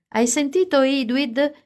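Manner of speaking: put-on high, loud yell at the boy; Carly yells at Edward. A narrator's reading. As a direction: bark it across the beach. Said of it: "si mise a urlare a Edward".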